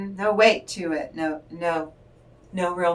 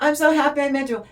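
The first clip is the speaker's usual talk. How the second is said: higher, quick and gushing; gushing guest; 8 semitones higher, 5 dB louder, faster than usual. Acted. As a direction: burst out happy to meet someone. Acted wedding guest greeting.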